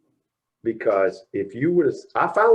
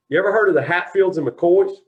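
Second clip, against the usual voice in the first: mock stern father; 9 semitones higher, 8 dB louder than usual. Father grilling him, retold.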